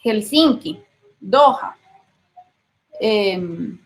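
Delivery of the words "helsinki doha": Helsinki and Doha with H as Spanish J; "Helsinki, Doha" with audibly aspirated H. Shown as a demonstration. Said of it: "suena como J".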